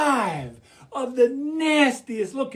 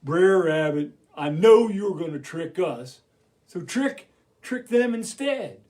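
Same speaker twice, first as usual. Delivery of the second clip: bear character; 3 semitones lower than usual. Acted. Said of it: "bear came up to me and he goes".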